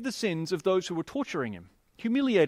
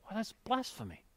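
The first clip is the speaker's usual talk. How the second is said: hushed, much softer muttered outrage; whispered; 4 semitones higher, 9 dB quieter than usual. A narrator's reading. Scholars muttering among themselves about Jesus, hushed outrage. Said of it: "Some religious scholars whispered".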